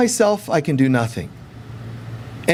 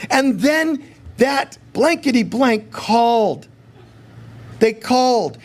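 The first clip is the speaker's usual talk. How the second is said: playfully indignant, venting at God; mock whiny complaint to God; 5 semitones higher than usual.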